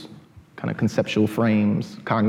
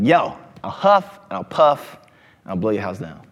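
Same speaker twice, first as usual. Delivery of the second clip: hammed-up wolf; 5 dB louder than usual. Storyteller voicing wolf to crowd, mock menacing. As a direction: lean into the wolf's big threat. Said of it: "Wolf is like".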